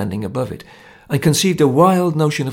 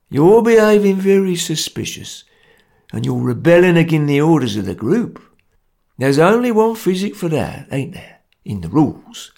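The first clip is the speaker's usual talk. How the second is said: lightly voiced stern Cockney ringleader; grim gang enforcer; 5 semitones higher than usual. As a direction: lay down the law, a touch menacing.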